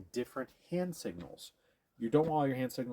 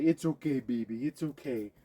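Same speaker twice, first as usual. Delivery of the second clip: coddling; 5 dB louder than usual. Shown as a demonstration. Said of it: "if he's stressed out and you say".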